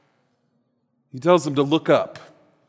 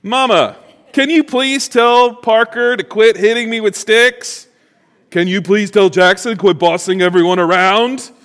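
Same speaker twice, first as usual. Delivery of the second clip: put-on a light, higher tattling-child whine; whiny kid; 5 semitones higher, 4 dB louder than usual. Child tattling on his brother to mom, lightly voiced whine.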